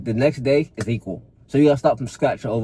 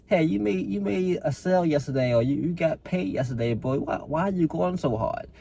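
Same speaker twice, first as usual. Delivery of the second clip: higher, mock easygoing inner voice; coaxing excuse voice; 5 semitones higher, 3 dB quieter than usual. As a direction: lightly play the lazy voice in your head. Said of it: "That's what your excuse voice would tell you".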